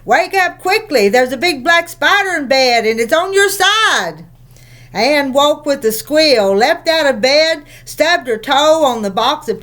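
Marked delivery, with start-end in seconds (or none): 0.0-4.2 high, urgent wake-up call; a mock-scary alarm to fool her sister. Joan pretending there is a spider, scary and urgent. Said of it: "making her voice scary and urgent".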